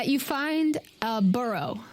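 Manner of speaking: ordinary delivery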